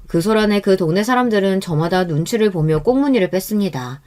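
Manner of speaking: usual speaking voice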